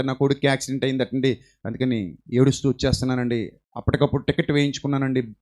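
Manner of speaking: a touch of the mother's distress; grieving mother. Retold or imitated. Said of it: "అని బాధపడుతూ". (బాధతో మృదువుగా తల్లి మాటలు)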